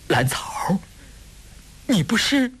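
high, faltering question, trailing off; halting disbelief, as if seeing a ghost; stunned stammer. A narrator's reading. Wu asks the woman he thought was dead, stunned stammer. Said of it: "口吃地问".

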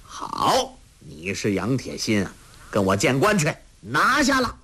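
officer calling out. Acted. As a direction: bark the arrest order from horseback. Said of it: "叫道".

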